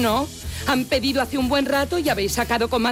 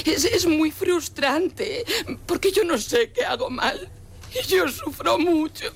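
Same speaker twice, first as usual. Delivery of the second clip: crying; 4 semitones higher than usual. Acted. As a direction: cry through the words on purpose. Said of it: "¿Sigo llorando un rato más?".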